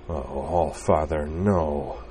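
slow, soft despairing moan; inner moan. Acted. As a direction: let it sink out of him slowly. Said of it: "he moaned inside".

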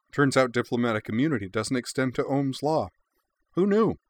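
high, playful, gleeful quip; cheeky girl voice. A narrator's reading. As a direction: tease with bright glee.

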